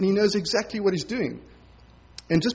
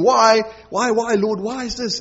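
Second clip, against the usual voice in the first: exasperated pleading; 3 semitones higher, 4 dB louder than usual. Retold or imitated. Believers complaining to God.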